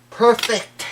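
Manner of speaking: high, loud burst of delight; excited exclamation. Real, not acted. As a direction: cry it out, thrilled with the result. Delighted at polished guitar.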